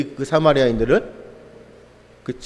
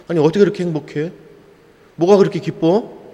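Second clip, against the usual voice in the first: mock astonished question; 3 semitones higher than usual. Onlookers amazed at believers' joy.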